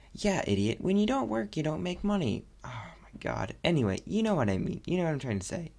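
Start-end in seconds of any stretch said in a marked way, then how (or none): 0.1-2.4 higher-pitched sarcastic jab at yourself; mock self-chiding. Host mocking own obvious remark about working, sarcastic. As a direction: state the obvious like you're talking to an idiot.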